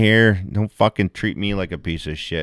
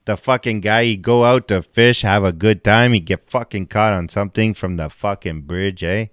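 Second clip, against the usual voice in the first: mock French Canadian. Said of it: "French Canadian bullshit right here".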